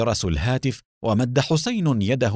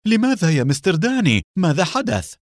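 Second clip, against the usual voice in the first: high, quick, alarmed questions; frightened; 7 semitones higher, 4 dB louder, faster than usual. A narrator's reading. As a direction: ask in a startled panic. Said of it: "أبعد حسين يده بذعر وهو يتساءل". (بذعر وتساؤل)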